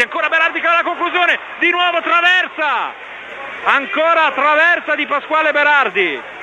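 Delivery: disbelief at a second crossbar; incredulous commentary. Acted.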